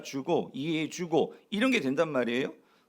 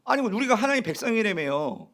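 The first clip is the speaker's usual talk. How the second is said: higher-pitched acted protest to God; resentful complaint; 4 semitones higher than usual. Exiled Israelites complaining to God, aggrieved. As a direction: plead and grumble, imitating an aggrieved believer. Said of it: "막 원망 불평하는데".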